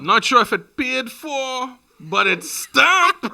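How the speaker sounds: slow amused drawl; laughing. Real, not acted. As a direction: hold back a laugh, slowly. Joking about qualification.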